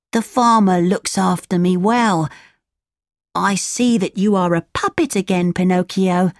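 lightly voiced donkey friend; a hint of a donkey character, chatting; Lampwick, contented donkey.

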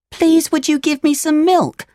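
put-on very high, polite puppet boy; Pinocchio, pleading. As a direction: plead like a little boy asking a favour. Pinocchio begs the farmer.

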